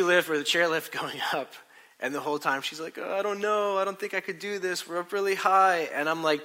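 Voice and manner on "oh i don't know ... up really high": higher, mildly anxious mock voice; lightly hammed-up nerves; nervous protest. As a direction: imitate a hesitant, worried wife. Retelling wife's nervous protests on lift.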